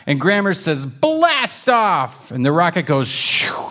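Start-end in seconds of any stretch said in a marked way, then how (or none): 0.9-2.3 high, excited cry of blast off; excited launch call. Acted.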